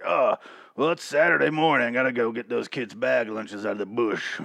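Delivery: a hint of an odd homeless man; lightly voiced scavenger. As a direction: casually voice the lunch scavenger. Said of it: "someone is just like".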